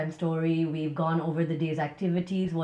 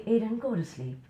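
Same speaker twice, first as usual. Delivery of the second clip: put-on gently coaxing a child to sleep; easy, kindly bedtime nudge; nice gentle tone. Shown as a demonstration. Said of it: "even if you're saying something nice".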